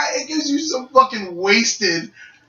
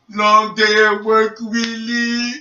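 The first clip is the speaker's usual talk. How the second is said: mock sympathy; slower than usual. Brother keeps teasing.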